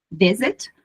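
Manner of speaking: "visit" stressed on "vi"; "visit" with the weak syllable at the end; stress on first syllable. Shown as a demonstration. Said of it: "não é a última sílaba tônica".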